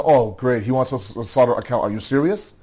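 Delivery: mock the command with scorn; sarcastic. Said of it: "a very sarcastic".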